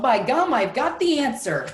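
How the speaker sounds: excited yell. A narrator's reading. Pig yells that he has found the answer, excited yell. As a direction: cry it out like a sudden discovery. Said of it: "and yelled".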